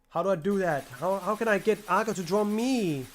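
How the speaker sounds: a hint of a sulky kid; mock whine as if Dave were speaking; mocking whiny voice. Mocking Dave's inner voice.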